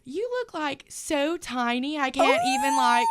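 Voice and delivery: put-on high, giddy southern drunk girl; southern accent. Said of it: "in her little southern accent".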